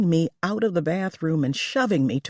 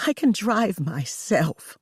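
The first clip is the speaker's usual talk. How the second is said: groaning; 3 semitones higher than usual. Acted. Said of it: "I groaned".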